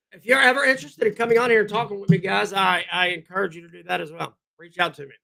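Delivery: normal talking voice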